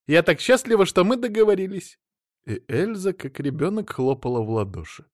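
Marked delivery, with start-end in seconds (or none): 0.1-2.0 put-on high, gushing childlike joy; giddy wife delighted with the deal. A narrator's reading. Elsa claps like a child.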